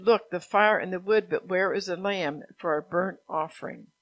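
projected, even read-aloud; scripture reading. A narrator's reading. Preacher reads Abraham's story from Genesis, scripture reading. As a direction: read the Bible story out to a congregation.

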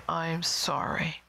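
slow, deliberate apology; sincere apology. Shown as a demonstration. Parent owning a wrong to kids, sincere apology. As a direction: give each word time, in earnest.

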